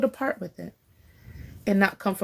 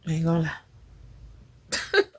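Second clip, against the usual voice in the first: slow drawn-out; 3 semitones lower, much slower than usual. Shown as a demonstration. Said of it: "repeated three times".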